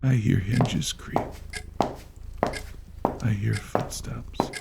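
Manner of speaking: drifting from voice into a breathy whisper; a dying man's last fading words. Acted. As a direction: let each line slip away, barely there. Narrator fading toward death.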